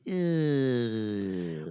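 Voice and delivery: long, drawn-out "ugh" sliding down; mock disgusted groan; imitated groan of disgust. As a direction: groan it out slowly on their behalf. Imitating friends' silent disgust.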